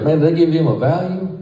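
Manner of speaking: high, loud incredulous question; retold exasperated doctor. Doctor walking in on the nurses, loud exasperated mock question. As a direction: throw up your hands at the nurses.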